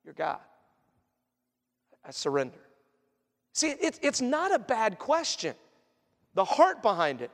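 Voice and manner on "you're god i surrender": low, soft, yielding voice; humbled surrender. Acted. Believer yielding to God in repentance, hushed and humbled. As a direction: let it sink into quiet surrender. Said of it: "it leads us to repentance".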